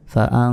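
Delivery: ফা আং with the ng held long; sustained hidden ng on আং; ghunna. Shown as a demonstration. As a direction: draw আং out as a nasal hum. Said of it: "এখানে গুন্না হবে".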